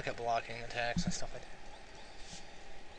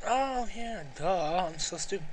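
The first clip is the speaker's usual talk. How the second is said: self-mocking; 6 semitones higher, 4 dB louder, slower than usual. Real, not acted. Realises own mistake.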